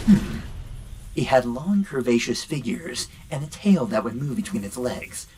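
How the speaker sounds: gruff Snake impression, lightly done; Solid Snake voice. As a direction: read it like a grizzled soldier. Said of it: "meant to be read in the Snake voice, so I'll do that".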